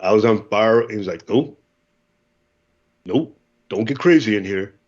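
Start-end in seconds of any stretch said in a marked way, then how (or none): 1.3-4.8 instructor's level voice. Retold or imitated. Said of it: "like a Clint Eastwood voice".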